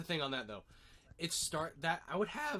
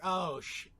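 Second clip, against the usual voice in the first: startled cut-off curse; 4 semitones higher, 5 dB louder than usual. Retold or imitated. Mixie cut off mid-curse.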